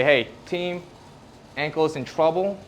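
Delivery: a hint of a meeting leader; nervous system chairing. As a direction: call the team to attention, lightly acted. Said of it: "the nervous system hosts a meeting kinda like this".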